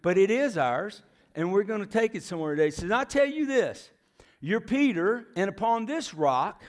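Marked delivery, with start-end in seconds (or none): 4.4-6.6 proclaimed quote. Acted. Quoting Jesus in sermon.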